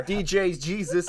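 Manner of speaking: high, drawn-out mock DJ tag; club DJ voice. Teasing the co-host as DJ Jesus, hammed-up hype. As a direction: stretch it like a cheesy DJ.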